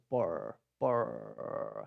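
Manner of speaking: por with a long, vibrating throaty r; R from the throat. Shown as a demonstration. Teacher showing where the R comes from, long throaty por. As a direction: draw out the r of por, low in pitch. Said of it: "Você sente sua garganta vibrar".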